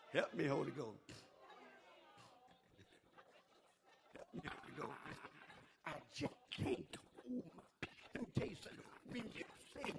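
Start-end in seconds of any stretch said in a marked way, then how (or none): 0.1-5.0 low, much softer plea to the Holy Ghost; quiet prayer. Real, not acted. 5.9-8.8 whispered, much softer. Real, not acted. Preacher drops to whisper.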